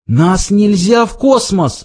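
high-pitched pleading cry. A narrator's reading. Ford begging the guard not to eject them, pleading high. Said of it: "взмолился Форд".

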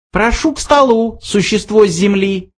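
high, thin mouse voice; thin little voice. A narrator's reading. Unseen mouse invites the Earth creature to table, thin little voice. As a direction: pitch it up like a tiny mouse. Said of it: "раздался тонкий голосок".

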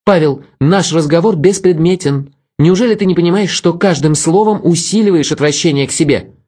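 put-on cold, superior young woman; Vera, cold. A narrator's reading. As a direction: voice her aloof and cutting. Vera's voice, cold.

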